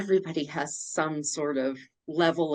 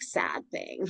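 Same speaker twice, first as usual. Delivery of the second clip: whispered; 12 semitones lower, 7 dB quieter than usual. Real, not acted. Describing her dark heart.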